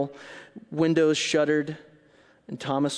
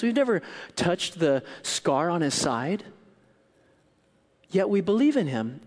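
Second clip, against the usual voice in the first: rousing preaching; 6 semitones higher, 3 dB louder than usual. Real, not acted.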